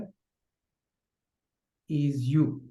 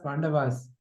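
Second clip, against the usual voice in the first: ordinary talk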